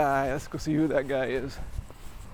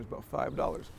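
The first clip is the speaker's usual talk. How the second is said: usual speaking voice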